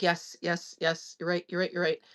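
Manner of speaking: soft, hushed agreement in retelling; quiet conceding. Retold or imitated. Father conceding to his daughter, quiet agreement. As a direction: give in softly, repeating it.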